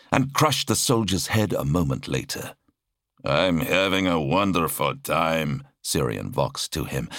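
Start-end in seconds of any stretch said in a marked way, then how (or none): 3.2-5.7 sarcastic. Acted. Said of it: "breathless and sarcastic".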